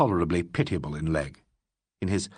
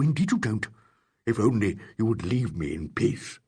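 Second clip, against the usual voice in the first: extraordinary intensity; 3 semitones higher than usual. Acted. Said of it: "with extraordinary intensity".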